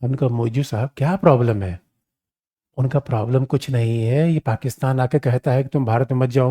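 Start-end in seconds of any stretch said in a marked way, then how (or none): 0.3-1.8 gently coaxing Moizzu. Retold or imitated. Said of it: "हमने मोइजो को पुचकारा".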